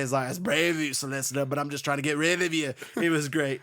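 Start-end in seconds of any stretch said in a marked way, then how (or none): 0.3-2.7 badly faked Irish accent; terrible Irish accent. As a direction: have a light, clumsy go at an Irish accent. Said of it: "In my terrible Irish accent".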